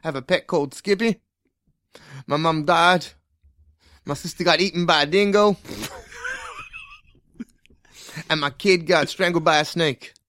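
put-on Australian accent that is hard to place; deadpan backstory in an uncertain Australian accent; muddled Australian accent. Detective telling his partner his outback history, muddled Australian accent. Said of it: "I can't work out his accent".

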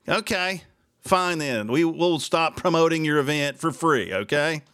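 fine then, spelled out in anger; pissed off. Real, not acted. Host telling the city he will stop promoting, angry. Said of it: "I am pissed off".

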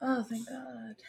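breathy relieved whisper. Real, not acted. Relief at being recorded.

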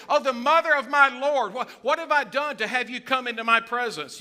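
loud, high-pitched cry of amazement; excited shouting. Acted. Elizabeth greeting pregnant Mary as she walks in, excited shouting. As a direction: shout it out, overjoyed at the visitor. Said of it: "She starts shouting".

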